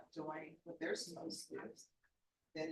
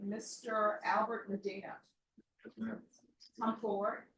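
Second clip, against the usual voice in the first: calling out; 5 semitones higher, 8 dB louder than usual. Real, not acted. Judge calls defendant to the bench.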